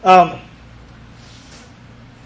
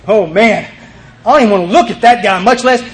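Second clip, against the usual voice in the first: imitating his own reluctant, put-off reaction; mock aversion, pitch lifting at the end; retold dread; 4 semitones higher, 3 dB louder than usual. Speaker avoiding the scary kid, acted-out dread. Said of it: "just kinda looking around like this going".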